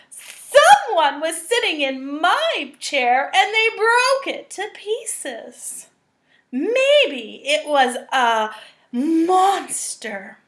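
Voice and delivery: wide-eyed little cub, drawn out; little Baby Bear. Acted. Reading to children, baby bear finds his broken chair, slow.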